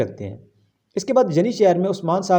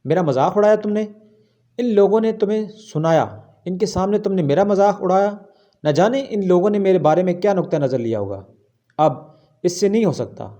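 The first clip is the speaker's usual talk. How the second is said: angry; 2 semitones higher than usual. Acted. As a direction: pitch up and hurl the blame at him. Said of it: "الگن غصے سے کہتی ہیں".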